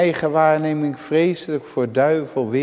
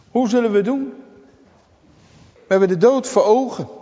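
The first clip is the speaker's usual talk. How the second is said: radeloze vraag; 9 semitones higher, 3 dB louder, faster than usual. Acted. Radeloze vraag van knecht.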